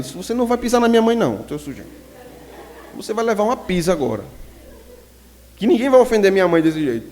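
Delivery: menino furioso, voz mais alta e forte; raiva de menino. Retold or imitated. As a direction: gritar defendendo a mãe. Briga de rua recontada. (menino brigando com raiva para defender a mãe)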